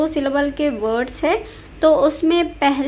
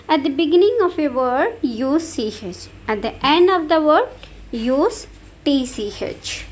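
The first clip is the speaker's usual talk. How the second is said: slow dictation; much slower than usual. Shown as a demonstration. Reading the spelling rule aloud.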